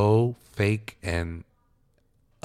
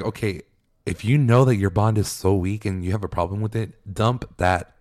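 fed-up advice, pushed out a bit louder; annoyed; 4 dB louder than usual. Retold or imitated. To Alec about Lydia, annoyed and a little louder. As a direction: tell him to drop her, clearly irritated. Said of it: "oh, I was so annoyed".

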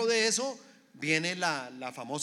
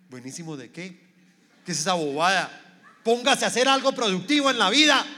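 embittered scolding; 3 semitones higher, 11 dB louder, faster than usual. Acted. Bitter father scolding child over a video, angry outburst. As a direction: start dismissive, then blow up in acted anger. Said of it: "El amargado, el que perdió el gozo".

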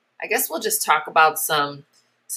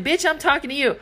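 put-on bratty kid; 8 semitones higher than usual. Kid swearing at her.

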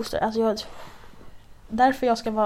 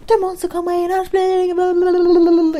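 high, loud mock shrieking; shrill-pitched imitation of a parent shouting; mimicked screaming mother; 9 semitones higher, 8 dB louder than usual. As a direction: yell like an exasperated mother, dissolving into gibberish. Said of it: "hon står bara och skriker".

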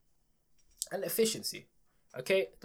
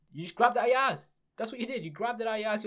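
louder, higher, jabbing each accusation at them; exasperated accusation; 7 semitones higher, 7 dB louder than usual. Real, not acted. Ranting at Apple over its price, louder and accusing. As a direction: call them out hotly, like catching a liar.

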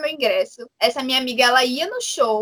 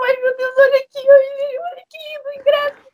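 high, near-tearful squeal of joy; squealing over the ticket, much higher; thrilled squeal; 11 semitones higher, 4 dB louder than usual. Retold or imitated. Showing off her concert ticket, overjoyed high squeal.

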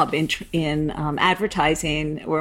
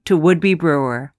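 podcast host intro. Acted. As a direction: read it like a radio host welcoming listeners. Podcast intro read over music.

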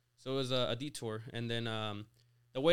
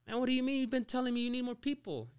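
much higher, louder, exasperated; a boss caught off guard by his managers; mock outraged boss; 11 semitones higher, 3 dB louder than usual. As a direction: play the owner baffled and annoyed. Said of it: "And he got mad".

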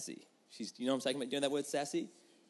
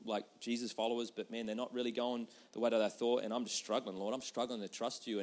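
quiet struggling prayer; 4 semitones lower than usual. Shown as a demonstration. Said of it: "modelled prayer".

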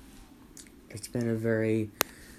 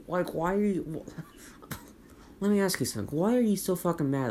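laughing disbelief; 8 semitones higher than usual. Real, not acted. Laughing exasperated question to critics.

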